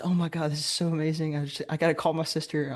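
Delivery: imitating a gushing girlfriend; lightly excited mimicry, running on without a breath; mildly giddy quote; retold excitement. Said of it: "over the moon excited".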